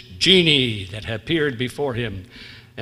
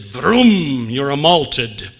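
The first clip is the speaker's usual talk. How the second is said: loud "Vroom", then slow "you're a malted"; genie punchline; 6 dB louder, much slower than usual. Acted. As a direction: land the punchline with a big magic vroom.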